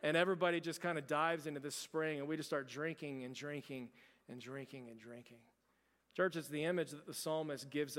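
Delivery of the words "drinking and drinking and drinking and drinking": fading away. A narrator's reading. Drinking at the spring.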